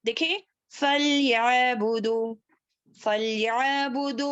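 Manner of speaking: याबुदु with a light ain, no jolt; smooth ain. Shown as a demonstration. Teacher shows a gentle ain for students. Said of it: "इसको आराम से पढ़ेंगे।".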